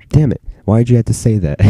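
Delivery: high, frustrated mock whine at his friend; exasperated complaint. Retold groan at friend's slip.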